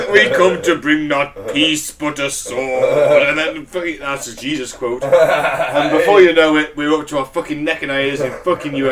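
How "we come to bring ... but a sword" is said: slow, mock-solemn alien overlord; booming demon lord. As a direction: proclaim it slowly like a lofty prophet. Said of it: "this is the voice of Ashtar".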